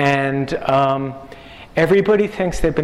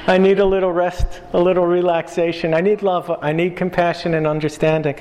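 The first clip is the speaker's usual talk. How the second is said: put-on Yiddish accent. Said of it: "God's attitude was like".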